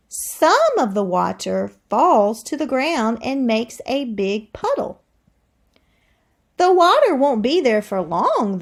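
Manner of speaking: lively read-aloud to the class; expressive classroom read-aloud; reading to children. Acted. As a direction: read it like a storybook for kids. Teacher reads book aloud.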